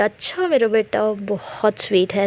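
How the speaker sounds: put-on soft, affectionate praise for a child; loving tone. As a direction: say it lovingly to your little one. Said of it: "प्यार से बात करती है".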